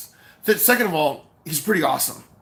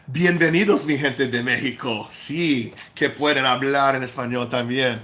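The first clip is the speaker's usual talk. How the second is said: vlog greeting in Spanish. Shown as a demonstration.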